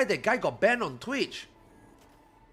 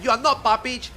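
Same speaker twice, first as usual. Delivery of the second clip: a hint of a mocking fan, higher and louder; mocking Russian viewers; 6 semitones higher, 6 dB louder than usual. Streamer retells fans calling him fake, light mock taunt. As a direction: lightly parody the accusers. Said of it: "viewers that came to my channel and talked shit like that".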